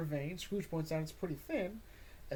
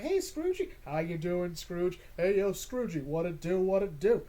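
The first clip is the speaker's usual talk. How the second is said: cheery greeting; 3 semitones higher, 5 dB louder than usual. Acted. Townsfolk greeting Scrooge.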